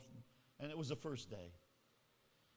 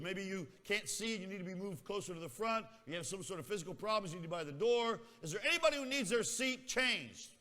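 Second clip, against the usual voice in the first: teacher; 4 semitones higher, 4 dB louder than usual. Retold or imitated. Teacher voiced asking class.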